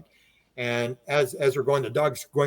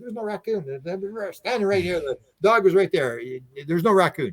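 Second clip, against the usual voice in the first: higher, insistent retold objection; urgent protest; 5 semitones higher than usual. Man to friend waving rifle, urgent protest. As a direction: imitate talking someone down. Talking down armed angry friend.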